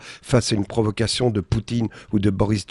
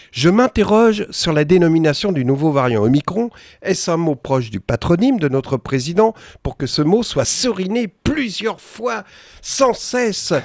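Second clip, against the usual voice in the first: mock Boutin read; 5 semitones higher than usual. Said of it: "un tweet que je vais vous lire".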